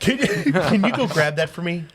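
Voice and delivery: asking through laughter; words broken by a laugh. Real, not acted. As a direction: giggle through the request.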